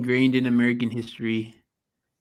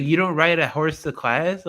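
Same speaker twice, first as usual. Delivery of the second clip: higher, louder mock astonishment; retold surprised question; 6 semitones higher, 4 dB louder than usual. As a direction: imitate someone amazed at you. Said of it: "Somebody was like".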